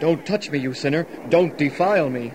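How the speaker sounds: mocking Zadok. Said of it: "the old Pharisee Zadok".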